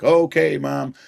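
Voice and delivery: put-on a high, eager child's reply; kids answering. Kids answer mom, high and eager. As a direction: chirp it like a young kid answering mom. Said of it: "And it's like".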